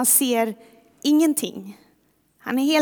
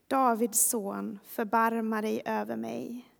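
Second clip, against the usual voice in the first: quiet plea; 7 dB quieter than usual. Acted. Quiet repeat of the shouted plea.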